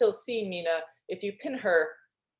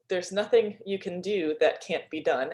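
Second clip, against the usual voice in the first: "There's Nothing You Can Do That Can't Be Done" read slowly, every word weighted; slow announced title; 3 dB louder than usual. Shown as a demonstration. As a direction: savour the title like a song line, slowly. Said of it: "hard not to sing that".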